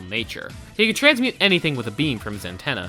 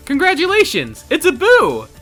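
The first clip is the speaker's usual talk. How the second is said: excited announcement; 12 semitones higher, 5 dB louder than usual. Pretend. Mock birth announcement.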